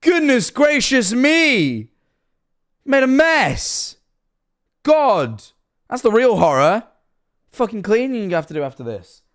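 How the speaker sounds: high, drawn-out exasperated yell; mock scolding. Streamer yelling at a kid on screen about the mess, mock scolding. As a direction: holler it like a fed-up parent, hammed-up.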